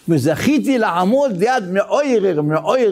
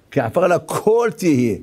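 slow recitation; slower than usual. Shown as a demonstration. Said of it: "ונפשי כעפר לכל תהיה".

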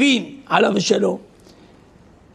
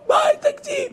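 high-pitched imitated wail of protest; mock crying, pitch leaping up at the start; retold tearful outcry; 5 semitones higher than usual. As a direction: plead as if bursting into tears. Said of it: "הרב טולדנו התחיל לבכות".

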